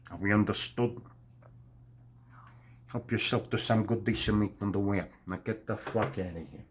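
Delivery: a hint of a cold mob boss giving orders; Daniel Day-Lewis impression. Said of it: "that was my favorite impression of, Daniel Day-Lewis".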